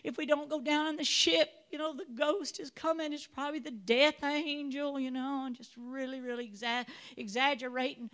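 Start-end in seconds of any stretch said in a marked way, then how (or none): 0.0-5.0 mock panic. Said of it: "And it says".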